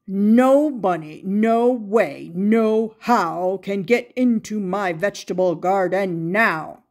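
exclaimed. Acted. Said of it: "he exclaimed".

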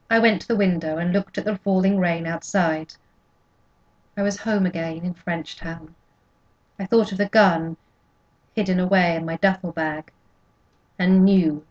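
ordinary delivery, nothing marked

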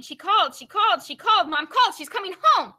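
breathless, excited rush of news. Acted. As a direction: burst in with the big news. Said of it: "Prudence rushed out of the house saying".

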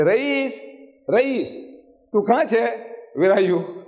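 high calls that ease off by the end; playful calling. Retold or imitated. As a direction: call out like searching for a hiding child.

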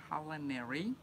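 CULINARY taken carefully, syllable by syllable; slow, careful word. Real, not acted. Reader picking through a hard word on the packet, slow and careful. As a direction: sound out CULINARY slowly and deliberately. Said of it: "I had to say that slowly".

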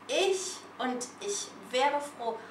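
"ich und ich wäre froh" spread out slowly, word by word; slow the phrase right down for the learner. Shown as a demonstration. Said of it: "Plus lent, lentement". (plus lentement, "ich wäre froh" détaché)

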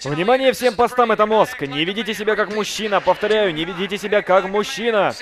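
crackling radio alert call; police radio. Retold or imitated. Brain voiced as radio. (полицейская рация)

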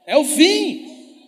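alto, agudo e bem arrastado; proclamação. Shown as a demonstration. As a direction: estique cada palavra, gritando. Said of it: "Acabei de contar o código". (pregador revela o código à plateia, gritando devagar)

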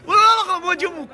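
a high shout of refusal. Real, not acted. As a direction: cut it off with a shout. Shouting in protest at a decision. (صيحة اعتراض عالية)

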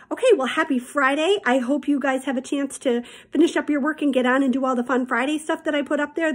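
cheerful teacher sign-off. Real, not acted.

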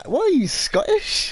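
high, slow incredulous question; teasing disbelief. Real, not acted. Player ribbing friend's speech habit, teasing disbelief. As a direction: tease with a rising, stretched question.

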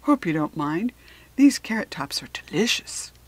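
chewing while talking; mouth full. Acted. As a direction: talk through a mouthful. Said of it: "with his mouth full".

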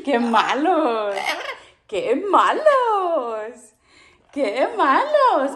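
slow laughing tease. Real, not acted. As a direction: drag it out through laughter. Teasing pets while laughing. (burla lenta entre risas)

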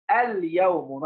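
اليوم with the l of "al" clearly pronounced before "yawmu"; sounded lam. Shown as a demonstration. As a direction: let the lam be heard in اليوم. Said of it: "انطقها الأول".

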